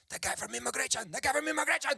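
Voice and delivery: high-pitched waitress sounding the alarm; mock alarm. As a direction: warn the room in hammed-up panic. Waitress warns everyone about immigration.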